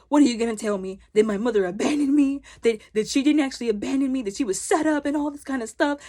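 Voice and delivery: rising, incredulous imitation; mimicked disbelief. He challenges what they say about his mother, mimicked disbelief.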